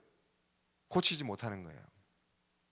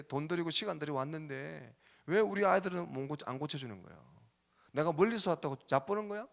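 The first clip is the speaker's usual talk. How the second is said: arguing father; 2 semitones higher than usual. Acted. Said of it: "나는 이렇게 막 지금 따지고 있는 거죠".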